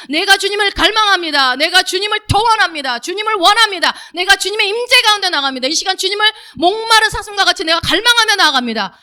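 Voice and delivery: loud, high-pitched impassioned declaration; fervent confession of faith. Shown as a demonstration. Worshipper coming into God's presence like a thirsty deer, fervent proclamation. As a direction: proclaim it at full force, phrase upon phrase. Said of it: "그렇게 믿음의 고백을 하면서".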